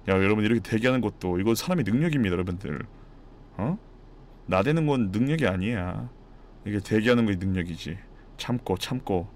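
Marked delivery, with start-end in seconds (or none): none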